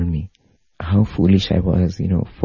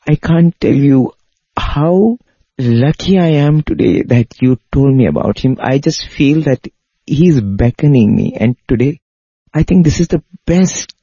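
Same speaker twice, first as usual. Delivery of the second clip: higher and louder, overflowing with emotion; tearful gushing thanks; 6 semitones higher, 3 dB louder than usual. Retold or imitated. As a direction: pour it out like a man breaking down in gratitude. German weeping, thanking the mother.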